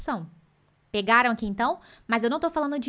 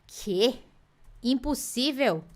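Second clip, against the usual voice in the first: mock disbelief; much slower than usual. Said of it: "Eu vou falar assim".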